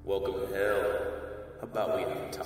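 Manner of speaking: slow deep southern drawl, welcoming; a Southern stranger greeting you; deep south accent. Acted. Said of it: "In a deep southern drawl".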